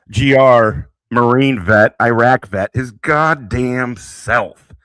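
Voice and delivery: loud ringside intro, last words drawn out slow; hype announcement. Real, not acted. Streamer loudly hypes a fellow Marine vet's arrival. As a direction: bellow it like a fight announcer.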